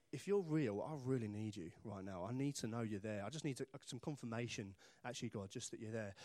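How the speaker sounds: soft, low private prayer; hushed, halting appeal, voice dropping; quiet plea. Retold or imitated. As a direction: plead quietly with God. Acting out a desperate prayer.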